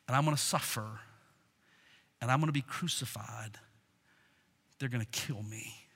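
low and soft, with heavy pauses; grave, subdued. Acted. Jesus telling disciples he will suffer, gravely quiet. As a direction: sink toward a near-whisper as you break hard news.

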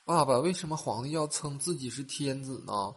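a hint of inquisitive kid; curious little boy. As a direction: ask Dad like a curious small child. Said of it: "小儿子就好奇地转头就问他爸爸".

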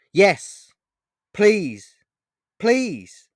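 high, loud desperate pleading; tearful shouting. A narrator's reading. Boy begging the stranger in tears, loud. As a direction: cry out please, begging. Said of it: "now even more in tears".

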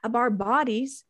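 hammed-up angry rant at lawmakers; retold rage. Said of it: "I was ragingly hot".

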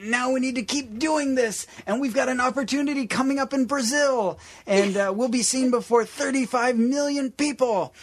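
high-pitched preacher fundraising voice; mock televangelist asking for money. Imitating Larson's money pitch.

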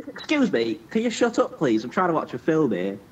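mock prissy complaint. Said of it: "mocking his cinema complaint".

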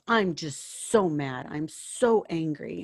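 slow, mildly angry retelling; retold anger. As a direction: stretch it out in mock exasperation. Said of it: "people that have gotten so angry".

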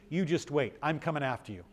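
understated threat, dropping in volume; quiet mock threat. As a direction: softly play at promising payback. Acts out his own vengeful reaction.

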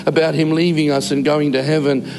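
steady read-aloud of a heartfelt post. Real, not acted. A grandfather reading his grandson's post about his late dad, read-aloud delivery. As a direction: read it out evenly, line after line.

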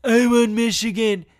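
lightly voiced bad politician impression; Trump. Host repeating the tweet's added ending, terrible Trump impression. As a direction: do a shitty, terrible president impression. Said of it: "terrible Trump impression".

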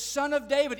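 very loud, high call. Retold or imitated. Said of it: "even louder".

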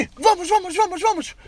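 high, loud urgent calling; urgent shout. Retold or imitated. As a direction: hurry them along, loud and high. Cop hurrying them off.

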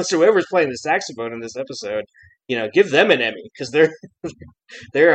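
real chuckles breaking into the words; amused laughing. Real, not acted. Fan joking about the saxophone player's award, laughing. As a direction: praise it while starting to laugh. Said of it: "I'm, I'm, I'm laughing".

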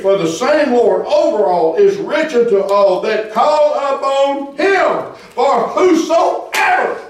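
emphatic scripture proclamation, swelling at the end; impassioned preaching. Real, not acted. Preaches scripture at full force.

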